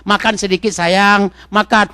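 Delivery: put-on soft coaxing to a child; a mother softly coaxing her child to eat. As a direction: coax the child gently to eat. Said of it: "dia rayu, dia bujuk".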